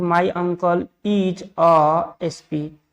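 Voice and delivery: slow, spaced-out example sentence; slow dictation. Shown as a demonstration. Teacher puts the last question to students, slow dictation. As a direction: read it word by word for learners.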